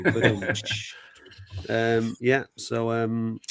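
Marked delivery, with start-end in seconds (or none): 0.0-1.0 a quick spoken drum sting, ba-dum-tsh, to close the joke; vocal rimshot. Acted. Podcast host caps the banter with a vocal rimshot. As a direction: mouth the drum-and-cymbal hit as a punchline.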